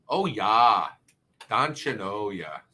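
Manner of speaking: imitated Fargo-style Minnesota accent; Minnesotan accent. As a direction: do a folksy, slow Minnesotan "don'tcha know". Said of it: "what was that movie with the, uh, Fargo".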